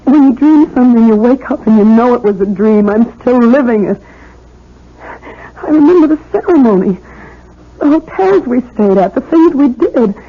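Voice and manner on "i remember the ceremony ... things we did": tearful, breaking voice; crying. Acted. Jennifer tells the officer her memories, crying. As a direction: remember it through tears. Woman recalls her vanished husband.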